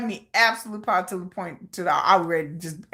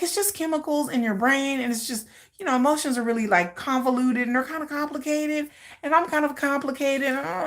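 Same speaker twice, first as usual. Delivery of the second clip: evasive dodging; 6 semitones higher than usual. Pretend. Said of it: "how do you feel about me".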